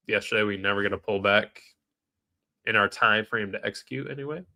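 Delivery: stuffy, nasal cold voice. Real, not acted. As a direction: speak through a blocked nose. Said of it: "sorry about the, the nasally voice today".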